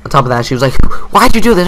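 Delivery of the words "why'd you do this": high, loud mock yell; mock angry mom. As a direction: demand answers like an outraged mother. Mom's angry question, retold.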